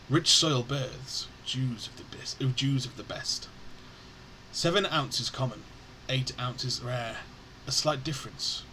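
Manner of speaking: slow poem reading with spaced phrases; verse recitation. A narrator's reading. Narrator introduces Old Ginseng Guai, slow verse recitation. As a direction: recite slowly, letting each line fall.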